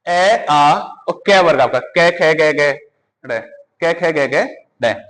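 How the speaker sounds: each sound said slowly and apart; slow sound drill. Shown as a demonstration. Teacher drills the class on sounds, slowly. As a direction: spell out कै खे गे गे डे one by one. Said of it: "इसका जो उच्चारण स्थान है".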